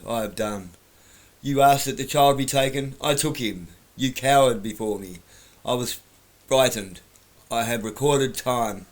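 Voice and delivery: hammed-up Goblin King, grand and loud; bad acting. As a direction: ham up the villain's speech. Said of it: "because I'm a terrible actor".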